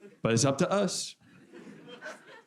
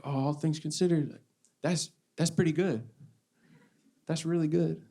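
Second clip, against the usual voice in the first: mocking people's optimism; 6 semitones higher than usual. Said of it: "You know how people will say that?".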